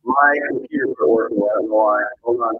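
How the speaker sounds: underwater. Real, not acted. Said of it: "Sound like you're underwater".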